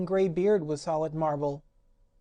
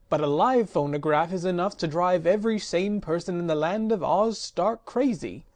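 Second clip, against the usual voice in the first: louder, bitter complaint; resentful rant; 4 dB louder than usual. Acted. Magician ranting at the phonograph, resentful. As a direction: rail at the machine. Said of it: "said the magician resentfully".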